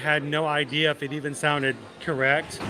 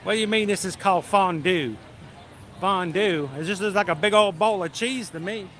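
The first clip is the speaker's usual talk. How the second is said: put-on slightly raised, puzzled Southern accent; bad Southern accent; 3 semitones higher than usual. Tired diner at a German restaurant, bad Southern accent. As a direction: play a baffled customer with a fake Southern accent. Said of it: "really bad Southern accent".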